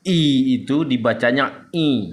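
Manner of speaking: first "I" plain, last "I" nasal from the throat; contrasting two I sounds. Shown as a demonstration. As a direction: show "I" misread as nasal 'ain. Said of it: "karena I itu letaknya di hidung".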